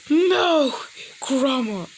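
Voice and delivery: high, loud shocked yell; shocked shout. Acted. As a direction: cry out in dismay, high. Naruto shocked at Kurama.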